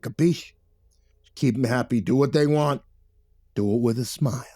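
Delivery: rumbling boss with a threatening edge; Victor, rumbling. A narrator's reading. Boss warning Billy about his movie, rumbling. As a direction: lean on him heavily, rising to emphatic warnings. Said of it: "heavy-lidded stare and rumbled".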